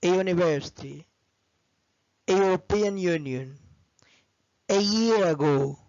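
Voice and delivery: a year ago said slowly with year stressed; slow model phrases. Shown as a demonstration. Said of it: "بقول".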